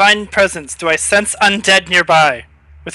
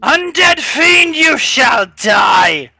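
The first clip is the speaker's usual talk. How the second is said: slow, high heroic shout; battle cry; 7 semitones higher, much slower than usual. Acted. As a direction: roar the challenge at the fiend. Paladin charging the monster.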